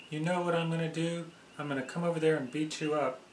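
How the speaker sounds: fast, teasing fake threat; mock threat. B'nai B'va teasing a friend with a fast mock threat. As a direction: rattle off a joking threat, not meaning it.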